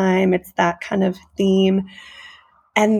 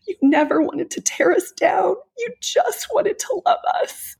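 hushed, breathy whisper, rising higher; 12 semitones higher than usual. Pretend. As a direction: whisper it like a longed-for apology. Imagined leader's apology, whispered.

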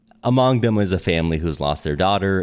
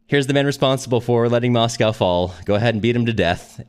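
commanding shout; 6 semitones higher, 3 dB louder than usual. Retold or imitated. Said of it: "and says".

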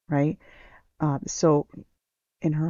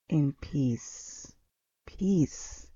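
hushed blessing; 7 dB quieter, much slower than usual. Acted. Savoring Jesus' blessing.

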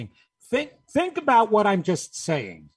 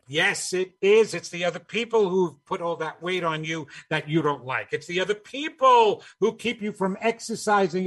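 mock alarm building to mock blame; exaggerated sarcastic finger-pointing at others. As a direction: play up the sarcastic accusation. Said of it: "I was being sarcastic".

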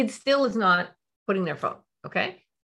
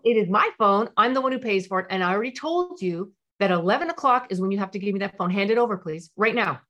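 stern parent. Shown as a demonstration. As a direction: lay down the law to the teen. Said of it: "how a typical parent would do it".

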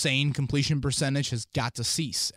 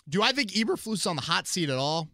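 voice crack; 5 semitones higher than usual. Real, not acted. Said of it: "a little bit of a voice crack there".

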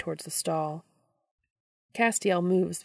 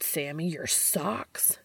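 suppressed laugh; 4 dB quieter, slower than usual. Acted. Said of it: "trying not to laugh or cry".

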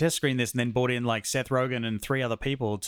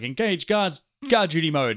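raised, higher announcing voice for a dog's guard mode; mock robotic command voice; 5 semitones higher, 4 dB louder than usual. Retelling a movie dog's gag to cohosts, mock robotic command. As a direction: announce it like a machine switching modes.

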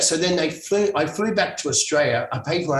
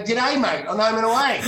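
lightly hammed-up Aussie greeting, pitched high; mock Australian soap accent; 5 semitones higher than usual. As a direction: put on a bit of broad Australian. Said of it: "had to come home and go".

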